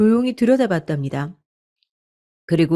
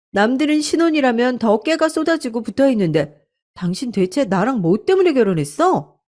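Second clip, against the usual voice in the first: confronting wife; 4 semitones higher than usual. Acted. Wife confronts cheating husband.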